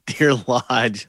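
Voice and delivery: "Lodge" with a short open vowel and j ending; corrective pronunciation. Shown as a demonstration. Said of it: "can you not say this right".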